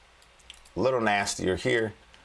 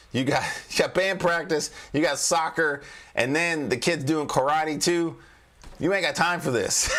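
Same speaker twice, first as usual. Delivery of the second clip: laughing list; 5 semitones higher than usual. Real, not acted.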